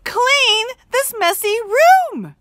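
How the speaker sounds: very high, loud, slow exasperated repeat; mother repeating for the twentieth time; repeated, fed up. Shown as a demonstration. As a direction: drag it out, totally fed up. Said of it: "repeated Mother".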